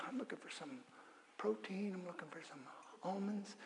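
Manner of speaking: near-silent pretend innocence; very soft casual act; hushed. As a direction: murmur it to yourself, sneaking past. Pretending not to notice.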